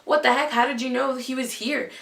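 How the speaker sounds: mock frantic, high and loud at first, then easing; retold freaking out. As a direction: act out friends in a flurry. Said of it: "freaking out".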